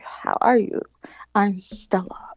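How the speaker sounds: whispered, unvoiced greeting; breathy introduction. Drag queen greeting a club newcomer, whispered.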